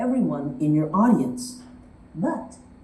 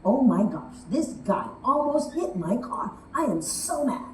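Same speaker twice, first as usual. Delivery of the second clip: mock mad rant; 4 semitones higher than usual. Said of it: "went to voice memo and said".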